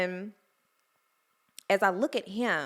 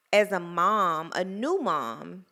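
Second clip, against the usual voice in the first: fighting back tears; 4 dB louder, slower than usual. Real, not acted. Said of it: "I'm trying not to cry".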